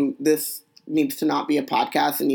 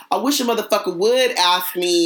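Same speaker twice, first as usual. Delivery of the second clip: grandma voice; 4 semitones higher than usual. Acted. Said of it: "turn into a black grandmother and say".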